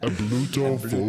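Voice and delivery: put-on Ablutophobia with a Spanish accent. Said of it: "Why'd you say that in a Spanish accent".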